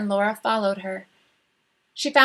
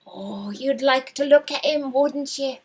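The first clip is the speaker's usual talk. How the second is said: sly sister; 3 semitones higher than usual. Acted. Em's sister teasing Laura.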